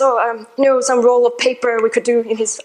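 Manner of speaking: put-on faint, half-hearted French accent; lightly imitated French accent; bad French accent. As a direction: attempt a French accent and fall short. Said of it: "I can't do a French accent very well".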